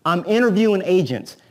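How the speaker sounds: lightly voiced seller, a bit up and firm; a hint of a guarded home seller; seller's voice. Realtor imitating a seller who announces he's interviewing agents, mildly mocking. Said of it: "he talks like this".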